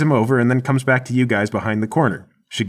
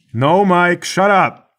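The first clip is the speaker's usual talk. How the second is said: higher-pitched, exasperated call; annoyed yell back; 7 semitones higher, 4 dB louder, much slower than usual. Acted. Guard answering his partner round the corner, annoyed yell. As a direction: yell down the hall to shut him up.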